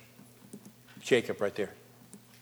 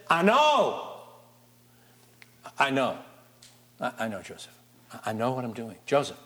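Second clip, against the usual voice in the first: put-on softening, reassuring old father; calm the worried son down; Jacob reassuring; 4 semitones lower than usual. Jacob calms his son.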